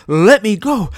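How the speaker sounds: high, loud straining cry; shouting. A narrator's reading. Father fighting to run back into the burning house. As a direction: shout as you fight to break free. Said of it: "Mister Smith shouted".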